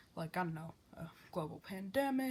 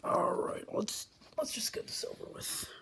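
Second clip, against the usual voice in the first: whisper. Acted. Grudging whisper before countdown.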